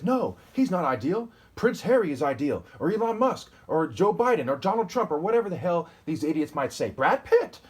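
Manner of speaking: high, loud sneering mimicry of a critic; mocking critic. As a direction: ham up a loud, scornful know-it-all listing names. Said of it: "So if somebody says".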